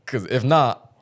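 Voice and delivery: slow, light Southern accent attempt; a half-hearted stab at a Southern drawl, slowed down; mild Southern accent, slightly slowed; country accent. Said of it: "do your best country accent".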